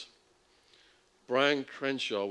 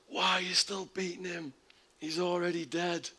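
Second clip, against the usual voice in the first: higher mock yell from the cells; retold yell; 9 semitones higher than usual. Inmates yelling at the guards, a mild mock yell. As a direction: call out like an inmate behind bars. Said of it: "inmates started yelling".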